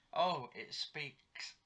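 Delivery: slow, drawn-out sarcasm; sarcastic. Retold or imitated. Mocking the man who started talking, sarcastic. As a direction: say it slowly, laying on the sarcasm. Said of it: "in a sarcastic tone".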